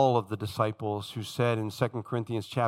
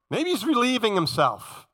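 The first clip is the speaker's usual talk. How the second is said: exaggerated swooping mock guess; crude, teasing jeer; mocking taunt; 8 semitones higher than usual. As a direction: needle them with pretend helpfulness. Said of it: "He mocks them terribly".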